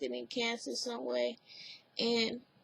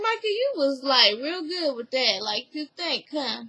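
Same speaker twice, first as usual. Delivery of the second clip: mock sarcastic praise; 4 dB louder than usual. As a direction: tease Micah as if praising him. Mocking friend's praise in retelling.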